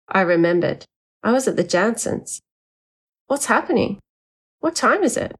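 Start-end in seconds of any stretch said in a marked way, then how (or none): 3.3-5.3 higher, drowsy and confused; sleepy bewildered questions; groggy just woken. A narrator's reading.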